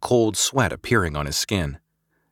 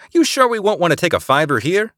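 pleading query; 10 semitones higher, 5 dB louder than usual. A narrator's reading. Eliza pleading after groaning.

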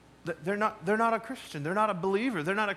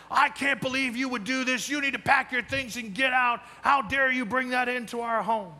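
a mild retold outburst, a bit higher; understated indignant scolding; mock indignant roommate; 5 semitones higher than usual. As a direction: play the furious roommate, lightly, not full force. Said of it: "He was so mad".

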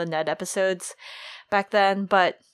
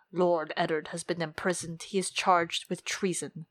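put-on grave old commander; 2 semitones lower, 5 dB quieter than usual. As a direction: break bad news heavily, lightly voiced. Commander breaks the news of treason.

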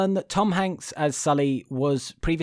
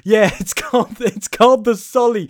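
hammed-up New York bartender, high and loud; a brash New York accent pushed up high and loud; bad New York accent; 8 semitones higher, 6 dB louder than usual. Bartender gushing to Sully, in a hammed-up New York accent. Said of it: "This is a terrible New York accent".

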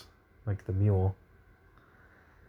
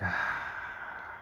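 weary sigh; 12 dB quieter than usual. Retold or imitated. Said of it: "And I was like".

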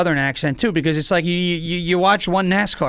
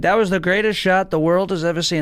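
lightly voiced boastful president; Trump impression. Bowler praising a nice shot, mock presidential impression. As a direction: slip briefly into a superlative-loving president voice. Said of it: "you sounded just like Trump".

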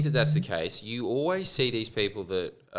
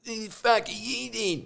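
much higher put-on voice for a blunt drug dealer; high, rough dealer voice; 11 semitones higher than usual. Stranger at the broken-down car, quoted in a high dealer voice. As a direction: ask it up high like a shady street guy. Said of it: "that kind of voice like this".

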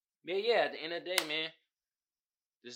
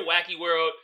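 laughing repeat; 8 dB louder than usual. Real, not acted.

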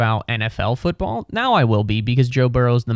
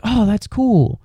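mock fake enthusiasm; 9 semitones higher, 3 dB louder, slower than usual. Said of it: "People will be like".

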